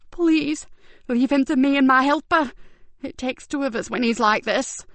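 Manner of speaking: high, urgent pleading; begging to handle him herself; beseeching. Acted. Carer beseeching Ben on the stairs. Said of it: "looked beseechingly at Ben".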